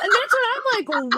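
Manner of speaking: laughing through the lead-in. Real, not acted. Mom laughing at her son's rain excuse, laughing. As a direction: giggle while you say it.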